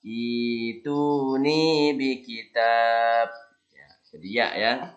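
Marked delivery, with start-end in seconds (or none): 0.0-3.3 "Ituni" started with i, slow; resuming read. Shown as a demonstration. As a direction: restart at "Ituni". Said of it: "Ini bacanya".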